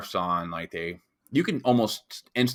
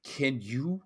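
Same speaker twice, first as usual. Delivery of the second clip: intimidating bouncer; 4 semitones higher, 5 dB quieter than usual. Retold or imitated. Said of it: "the bouncer was like".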